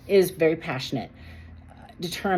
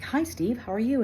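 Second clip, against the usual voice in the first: put-on friendly greeting; 7 semitones higher than usual. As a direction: greet the old boss in a sweet, raised voice. Acted phone greeting to old boss.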